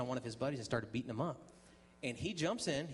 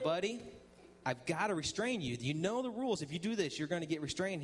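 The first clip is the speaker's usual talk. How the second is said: put-on higher-pitched, emphatic warning to a kid; retold stern warning; 5 semitones higher than usual. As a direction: re-enact laying down the rules, insistently. Warning kid he must restrain him.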